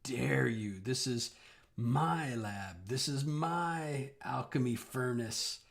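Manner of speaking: lightly raspy hag voice; a hint of an old crone's rasp. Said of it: "she says in a raspy voice".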